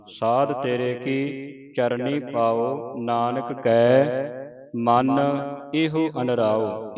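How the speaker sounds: measured reading with drawn-out line endings; scripture recitation. Shown as a demonstration. Teacher models Gurbani for learners, measured recitation. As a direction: recite sacred verse phrase by phrase.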